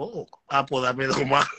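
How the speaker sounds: giggling through the order; laughing quote. Retold or imitated. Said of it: "medio, digo".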